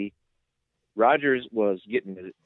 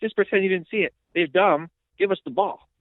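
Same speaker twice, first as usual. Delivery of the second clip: mock pleading; 9 semitones higher than usual.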